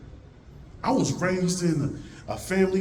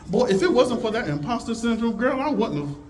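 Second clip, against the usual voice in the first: higher, sing-song mock praise; mock gushing gratitude; 9 semitones higher than usual. Speaker mocking gratitude for imposter syndrome, higher sing-song gushing. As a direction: pretend to gush over your self-doubt.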